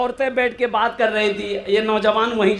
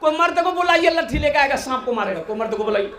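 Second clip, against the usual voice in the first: higher, panicky call; mock yell; 5 semitones higher, 4 dB quieter, faster than usual. Young man shouting with the women for help, mock yell. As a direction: copy the women's cry like a coward. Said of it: "ये भी चिल्ला रहा".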